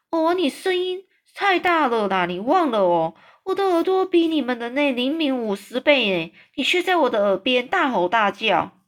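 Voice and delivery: lightly voiced giant, fussing at the noise; giant's complaining voice. Giant scolds Sophie for shouting in his ear, fussy. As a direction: grumble like a big sensitive giant.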